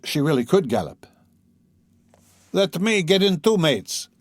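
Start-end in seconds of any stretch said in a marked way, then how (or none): 2.5-4.1 eager shout. Acted. Young man in crowd begging to join the cart, eager high shout. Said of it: "shouted a young man in the crowd".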